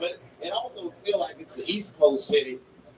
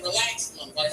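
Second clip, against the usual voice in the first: quiet calm-down; 2 semitones lower, 7 dB quieter than usual. Retold or imitated. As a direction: talk him down softly. Calming the man quietly.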